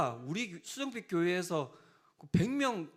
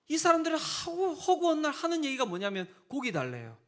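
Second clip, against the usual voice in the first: exasperated complaint; 9 semitones higher than usual. Acted. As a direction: complain like a worn-out leader. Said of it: "짜증이 난 거예요".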